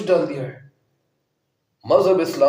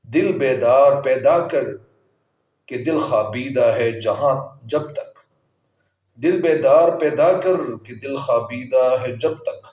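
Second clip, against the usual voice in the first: verse recitation; 3 dB louder than usual. Acted.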